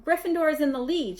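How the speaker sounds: Gryffindor shrieked high and loud; excited shriek. A narrator's reading. Hermione shrieking the score to Ron, excited. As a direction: cry Gryffindor out in joy. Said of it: "shrieked Hermione".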